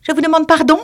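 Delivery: high prim mouse, politely irritated; polite but frowning. Acted. The mouse to the lory, polite but annoyed. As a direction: ask pardon with a frown in it. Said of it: "très poliment, mais en fronçant le sourcil".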